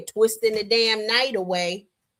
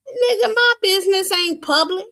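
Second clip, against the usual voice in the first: outraged denial; 10 semitones higher, 4 dB louder than usual. Real, not acted. Indignant retort.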